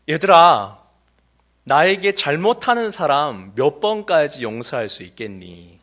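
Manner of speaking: put-on loud, slow call to a room of kids; a children's-class teacher calling out a question. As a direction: raise your voice to get the children's attention. Pastor calls question to children.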